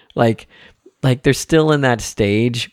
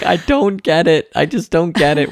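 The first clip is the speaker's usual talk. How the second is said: imitating hysterical daughter; 7 semitones higher than usual. Dad imitating daughter lost on the joke, mock hysterical. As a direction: retell a child helpless with the giggles, pitched up. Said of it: "she's laughing hysterical".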